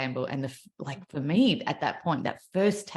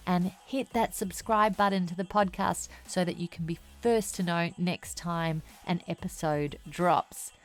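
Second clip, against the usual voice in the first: measured, polished host narration; podcast intro read. Acted. Host introducing a poetic spiritual teacher to listeners, scripted intro read. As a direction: welcome listeners with a prepared introduction.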